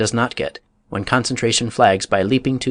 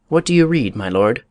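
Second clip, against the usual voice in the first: a hint of an old courtier's inquiry; Polonius asking. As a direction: courtier politely asking the prince what he reads. Quoting Polonius's question to Hamlet.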